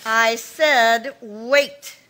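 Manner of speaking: I said wait, slow and hard; firm command. Acted. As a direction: stop her in her tracks with a hard, slow order. Sister stops her leaving.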